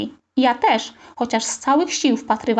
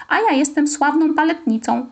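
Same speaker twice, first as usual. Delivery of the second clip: put-on higher, girlish squeak; 4 semitones higher than usual. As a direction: squeak it like a proud little ballerina. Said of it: "pisnęła Zosia". (piskliwie, wyżej)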